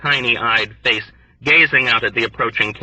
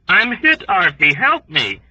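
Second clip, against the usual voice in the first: frantic plea; 8 semitones higher, 4 dB louder than usual. A narrator's reading. Wounded man crying for help.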